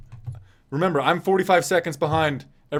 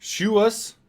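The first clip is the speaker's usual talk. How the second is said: much higher, rising "Shoe us?" as if asking what it means; puzzled question; 9 semitones higher, 4 dB louder than usual. Real, not acted. Streamer reads an odd chat name aloud, puzzled and rising.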